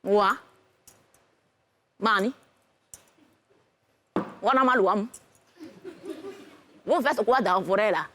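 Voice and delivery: low, spare questioning from an aged woman; old village woman. Acted. Old woman questions a couple in the forest, elderly voice. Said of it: "Il y a une vieille femme bêtée de quatre-vingt-douze ans".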